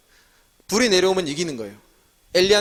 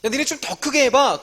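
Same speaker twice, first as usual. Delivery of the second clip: mild mocking; slower than usual. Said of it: "엘리야가 막 조롱했어요".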